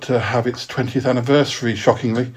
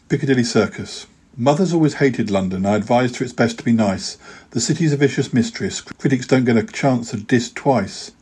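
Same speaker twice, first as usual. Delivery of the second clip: rhythmic verse, the rhymes landing; poem reading. Acted. Poet reads his London poem on air, wry and rhythmic. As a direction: tell it like a wry rhyming story.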